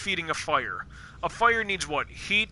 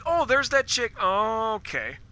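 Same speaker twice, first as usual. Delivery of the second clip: mock surprise; 5 semitones higher than usual. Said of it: "and it's like".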